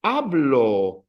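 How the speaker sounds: hablo drawn out, stressed on HA; stress on second-last syllable. Shown as a demonstration. Teacher showing students a word ending in a vowel, first-syllable stress. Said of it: "this one ends in a vowel".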